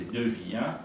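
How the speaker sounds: "viens" drawn into two syllables, vi-ens; "viens" over two beats, vi then ens; diaeresis. Shown as a demonstration. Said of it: "c'est pas terrible".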